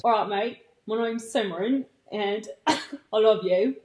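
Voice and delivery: badly faked Australian accent. Shown as a demonstration. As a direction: have a clumsy go at an Australian accent. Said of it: "I'm doing the Australian first".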